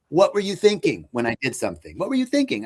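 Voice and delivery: a hint of a stern dad, rising sharply; dad scolding. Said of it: "but he would say".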